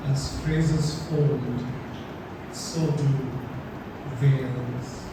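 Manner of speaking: slow, measured recital with long pauses; poem reading. Acted. Poet reads Banyan to a festival audience, poem reading. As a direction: read it line by line, letting each image hang.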